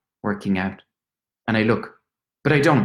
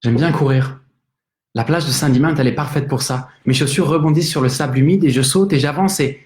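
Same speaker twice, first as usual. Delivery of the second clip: energetic French reading; 3 semitones higher, 6 dB louder, faster than usual. Acted. Opening the play in French.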